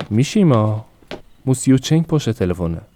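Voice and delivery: a wife calling her husband in the back room, a mild mock shout. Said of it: "به پشت مغازه رفت و داد زد". (صدا زدن ملایم شوهر از پشت مغازه)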